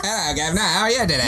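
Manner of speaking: a light mock British accent; polite British-accented greeting, lightly done. Host retries his British accent for agents. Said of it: "I'm gonna do British accent first".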